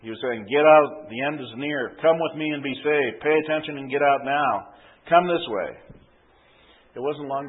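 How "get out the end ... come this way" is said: urgent street preacher call. Acted. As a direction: shout the warning to the crowd. Protester calling out warning.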